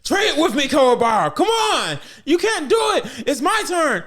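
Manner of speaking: high, loud, boastful shouting; hammed-up battle yell. Kuwabara hyping himself mid-fight, high boastful shouting. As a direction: holler it like a cocky fighter. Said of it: "Every time he'd made a single move".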